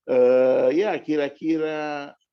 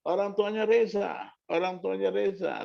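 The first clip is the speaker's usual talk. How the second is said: lightly voiced doctor's call, raised pitch; 4 semitones higher than usual. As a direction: call for the parents, a bit higher. Doctor calls out for parents.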